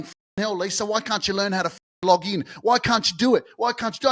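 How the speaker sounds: a lightly voiced, exasperated whine; mock whining. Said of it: "whinging and whining and going".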